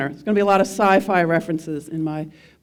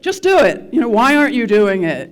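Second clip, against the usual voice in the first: high, louder nagging slogan; mock yell; 4 semitones higher, 5 dB louder than usual. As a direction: bark it like a scolding ad. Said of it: "It's sort of yelling at you".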